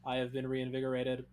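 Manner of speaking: monotone. Acted. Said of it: "still a little bit too monotone".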